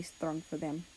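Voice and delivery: holding back tears as the line ends; voice cracking. A narrator's reading. Russia telling America of his grief, voice cracking. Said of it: "His voice cracked at the end".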